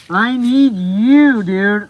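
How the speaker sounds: drawn-out, loud pleading; loud slow plea. Real, not acted. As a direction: beg him with every word. Pleading with viewer to come.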